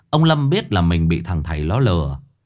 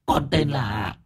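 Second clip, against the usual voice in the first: whimpering; 5 semitones higher, 4 dB quieter, slower than usual. A narrator's reading. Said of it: "mếu máo".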